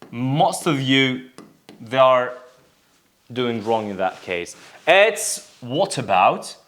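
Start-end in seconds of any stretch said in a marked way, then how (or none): 5.6-6.6 British "what about" with an O vowel; teacher modelling British "what about"; British pronunciation. Shown as a demonstration. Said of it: "It's O sound".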